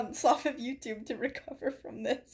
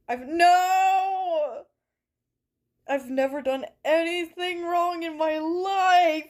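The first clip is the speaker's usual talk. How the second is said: mock protest; 5 semitones higher, 5 dB louder, slower than usual.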